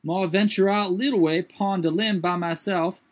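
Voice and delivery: high put-on dialect voice, startled; Jupiter's voice. A narrator's reading. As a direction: lift the voice high and protest.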